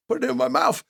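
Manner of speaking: high, loud challenge back; indignant retold retort. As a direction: throw it back at him, pitch leaping up. Retold angry retort before fight.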